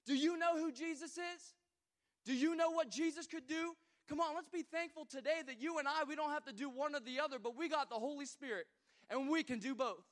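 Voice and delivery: loud, high, rousing preaching; preaching at full force. Acted. Pastor rousing the congregation about Jesus, loud and fervent. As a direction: lift the room with it.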